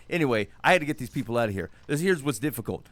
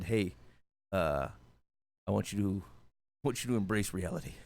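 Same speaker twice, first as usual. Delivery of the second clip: papal address; 4 semitones lower, 7 dB quieter than usual. Retold or imitated. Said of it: "pontiff wave like I do".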